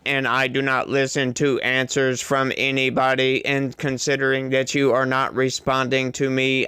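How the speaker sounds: flat, even robot voice. Retold or imitated. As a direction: drone it out like a machine. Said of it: "That's what it sounds like to me".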